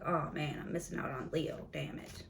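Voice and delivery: sinks to a whisper by damn it; mock regretful mutter. Ex realizing they lost Leo, fading mock mutter. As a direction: mumble it like a sulky loser. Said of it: "And now they're like".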